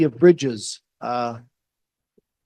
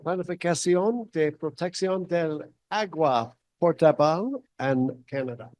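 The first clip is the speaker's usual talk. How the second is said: American accent Spanish; 3 dB quieter than usual. Real, not acted. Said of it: "mi español es no perfecto".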